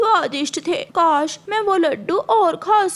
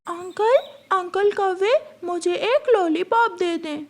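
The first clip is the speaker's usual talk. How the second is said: put-on child voice; 3 semitones higher than usual. Young crow child voice.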